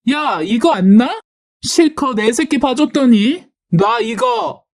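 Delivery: high, protesting cry without much volume; acted squeal of outrage, climbing in pitch; angry struggle. Sister-in-law struggling to break free, high angry protest.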